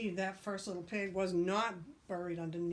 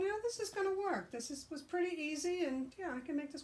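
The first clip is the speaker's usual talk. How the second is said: pig voice; 9 semitones higher than usual. Acted. First pig's confident thoughts.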